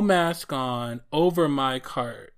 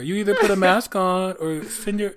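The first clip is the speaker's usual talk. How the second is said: loud, high, mock-furious telling off; mock angry clerk; 5 semitones higher, 3 dB louder than usual. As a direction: tell her off, hammed-up and fierce. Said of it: "what would you have said?".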